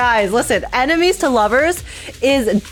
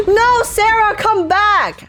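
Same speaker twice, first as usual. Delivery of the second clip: high, pleading cry; playful plea; 10 semitones higher, much slower than usual. Real, not acted. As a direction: call her back in mock despair. Pleading for a boss to return.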